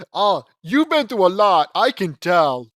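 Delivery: slow, loud, drawn-out pity; mock sympathy. Shown as a demonstration.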